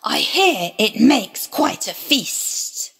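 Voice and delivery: slow, lightly voiced sly serpent; tempting serpent. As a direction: draw it out slowly, a hint of the snake. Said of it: "he said".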